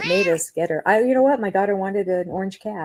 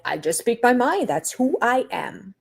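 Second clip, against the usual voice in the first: mock Cody quote; 4 semitones higher than usual. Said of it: "just saying".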